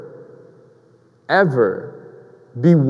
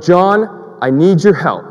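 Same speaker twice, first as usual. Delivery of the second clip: a raised call down the basement stairs; louder, calling down to John; 3 semitones higher, 4 dB louder, slower than usual. Retold or imitated. Wife calls John from the top of the stairs, raised voice. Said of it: "yells out".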